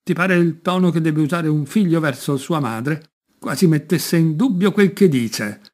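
the queen scolds her son in anger; indignant queen. Acted. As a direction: bristle at your son's tone. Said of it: "disse la regina rossa di rabbia".

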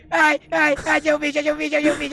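high excited babble. Real, not acted. Player excitedly finds the tape.

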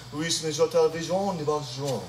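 light put-on French accent; a touch of a French accent. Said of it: "I can talk a little French accent for you".

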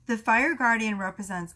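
strained, failing voice; losing voice. Real, not acted. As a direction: read through a worn-out voice. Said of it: "I'm losing my voice today".

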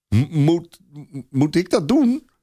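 put-on high, halting stutter of a scared boy; the boy dreads the big horse; frightened stammer. A narrator's reading.

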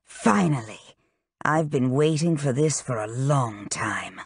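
hushed, gloating half-whisper; quiet menacing gloat. Acted. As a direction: savor each word like a long-awaited win.

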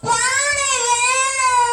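slow, lightly voiced whiny child; a grown man drawling like a sulky child. Courtier playing the child for the king, slow and whiny. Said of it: "நான் இப்பொழுது குழந்தையாக மாறுகிறேன்".

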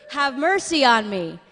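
loud, drawn-out plea for mercy; crying out. Retold or imitated. Blind man calling to Jesus through the crowd, crying out. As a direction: call out slowly and forcefully over a crowd. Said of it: "he starts to cry out".

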